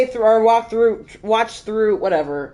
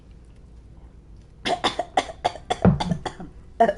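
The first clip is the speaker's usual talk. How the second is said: sputtering cough mid-sip; spray out a mouthful of drink; spitting out a drink; 5 dB quieter than usual. Real, not acted. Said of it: "That spit take is absolutely".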